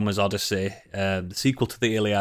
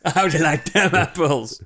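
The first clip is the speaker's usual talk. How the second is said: put-on Boston accent; 4 semitones higher than usual. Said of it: "Matt Damon with a Boston accent".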